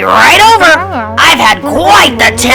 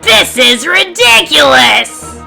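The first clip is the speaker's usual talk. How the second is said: high, drawn-out storybook yell; exasperated grumpy goose yelling; angry yell; 8 semitones higher, 3 dB louder, slower than usual. A narrator's reading. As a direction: yell it slowly in outrage, pitched way up. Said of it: "Grumpy yelled".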